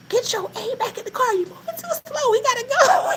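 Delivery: high yelling through laughter; laughing mock yell. Narrator laughing, yelling at granny to hurry. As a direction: yell at granny while cracking up. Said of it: "only time I ever yelled at my grandmother".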